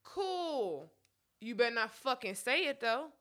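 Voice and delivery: normal talking voice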